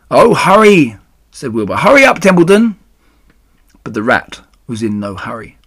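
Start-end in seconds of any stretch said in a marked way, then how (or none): 0.1-1.0 high, loud plea; frantic urging. Acted. Wilbur urging the dawdling rat. 1.8-2.8 high, loud, rising plea; frantic urging. Acted. Wilbur urging the dawdling rat.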